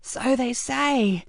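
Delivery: lazy villainous purr; Frankie, cold and amused. Acted. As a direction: shrug it off with icy calm.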